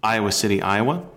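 inflected, upbeat radio host introduction. Real, not acted. Host introduces Aaron Draplin to listeners, radio voice. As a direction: sell each item with announcer-style inflection. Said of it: "uh, radio voice".

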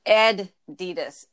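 Adidas drawn out slowly as ED-ee-das; Adidas stretched out, EH-dee-das. Shown as a demonstration. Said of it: "Do you say Adidas?".

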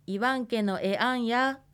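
いわんけのえあんや with a slight rise on the final や; question rise. Shown as a demonstration. Teacher models the Ainu question for students, rising ending. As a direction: lift the end of いわんけのえあんや on や. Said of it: "やというように少し語尾を上げるように発音する".

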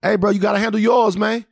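hyping a friend to fight; drunk hype-up. Retold or imitated. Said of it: "we talking our shit".

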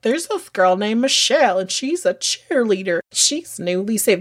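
light Arkansas twang; Arkansas accent. Retold or imitated. Telling how a guy touted cheerleader Michelle, Arkansas accent. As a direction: put on a mild Arkansas accent. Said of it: "That's why I'm doing the accent".

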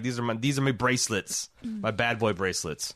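playful Irish brogue; mock Irish character voice; Irish accent. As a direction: say it as a proud Irish rogue. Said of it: "That's a great Irish accent".

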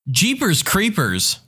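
a prim lady swapping a curse for a mild oath; posh lady's mild oath. Retold or imitated. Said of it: "One lady was too posh to swear".

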